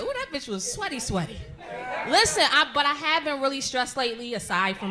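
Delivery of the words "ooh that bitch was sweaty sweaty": imitated audience gossip. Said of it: "Y'all gonna be like".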